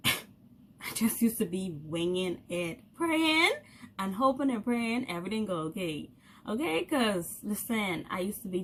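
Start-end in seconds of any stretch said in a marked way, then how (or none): 0.1-2.8 slow, laughing repeat of winging it; amused slow repeat. Shown as a demonstration. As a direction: laugh through the words, drawn out.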